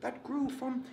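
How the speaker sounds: lightly voiced Eubank holding court; Chris Eubank impression. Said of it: "Chris Livingstone Eubank".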